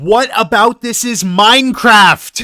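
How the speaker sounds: loud yelling. Complaining about a movie scene, yelling into the microphone. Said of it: "I'm gonna yell into the microphone".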